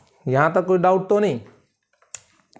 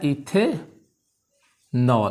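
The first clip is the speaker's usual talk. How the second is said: इथेनॉल very slowly, इथे stretched, pause, then falling नॉल; syllable by syllable; much slower than usual. Shown as a demonstration. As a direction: draw out इथेनॉल in separate parts. Teacher sounds out the term.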